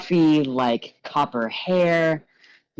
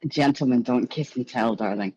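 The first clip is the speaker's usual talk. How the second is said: coy showman. Acted. Gallagher coy reply.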